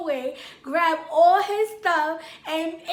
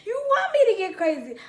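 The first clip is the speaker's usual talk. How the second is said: muttered threat; 7 semitones higher, 5 dB louder than usual. Retold or imitated. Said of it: "talking to myself".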